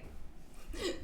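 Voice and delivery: short unvoiced laugh; quick airy chuckle; breathy laugh. Real, not acted. Laughing at pillow stunt.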